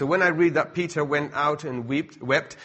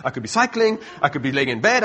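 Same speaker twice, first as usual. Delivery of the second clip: eager protesting; 2 semitones higher, 5 dB louder, faster than usual. Acted. Acting out eager answer to Jesus.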